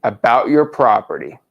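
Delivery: measured words for someone writing; dictating. Shown as a demonstration. Coach finishing the sentence for trainee, slow dictation. We're gonna write it.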